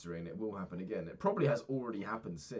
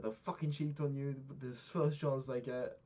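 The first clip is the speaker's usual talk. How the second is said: higher bitter Welsh accent imitation; 7 semitones higher than usual. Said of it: "he's got a very funny Welsh accent".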